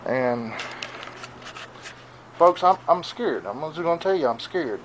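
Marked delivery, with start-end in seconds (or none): 2.4-4.8 scared. Real, not acted.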